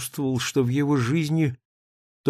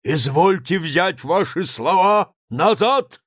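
high, loud, slow demand; shout; 6 semitones higher, 5 dB louder, slower than usual. A narrator's reading. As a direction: demand it in outrage. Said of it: "крикнул Самойленко". (требовательный крик)

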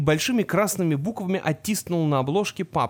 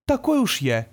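put-on smug smiling boy; 5 semitones higher than usual. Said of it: "улыбнулся Артемис".

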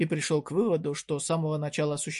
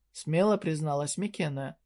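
ordinary delivery, nothing marked

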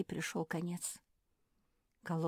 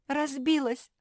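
с плачем; 10 semitones higher, 10 dB louder, slower than usual. Acted. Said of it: "заплакала Куки".

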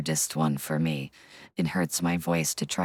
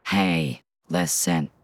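Navi voice; slower than usual. Shown as a demonstration. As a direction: chirp it like a little fairy guide. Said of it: "like a Navi from The Legend of Zelda".

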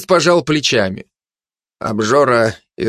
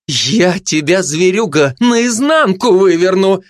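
high threat climbing higher; relentless threat; 7 semitones higher, slower than usual. A narrator's reading. Gossip keeps attacking the glutton, threatening. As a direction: press the threat, slowing at the end. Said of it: "не отступала сплетница".

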